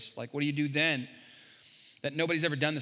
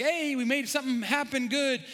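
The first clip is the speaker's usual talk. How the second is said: higher, lively quoting of the doubt voice; mock inner voice; 8 semitones higher than usual. Pastor voices the doubt in his heart, higher. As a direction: voice the nagging doubt. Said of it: "every time it seems like".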